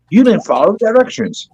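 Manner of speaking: high mocking teacher voice; mock teacher scold. Kid mocking his teacher's scolding. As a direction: sneer it like a strict teacher.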